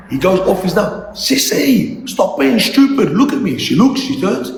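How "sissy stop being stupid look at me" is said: mild retold scream. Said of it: "He keeps screaming".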